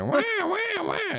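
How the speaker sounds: high, squawking mock pterodactyl cry. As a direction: screech it like a prehistoric bird. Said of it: "how does a pterodactyl sound like".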